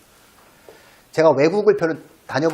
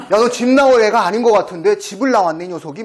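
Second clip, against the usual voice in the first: laughing, louder teasing to a stray; laughing at a cat; 5 semitones higher, 5 dB louder than usual. Retold or imitated. Teasing a pampered stray cat, laughing. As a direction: tease the runaway cat through laughter. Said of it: "막 그랬어요".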